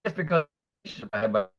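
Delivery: choppy, breaking-up audio; call dropping out. Real, not acted. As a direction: voice cutting in and out. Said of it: "You're really choppy again".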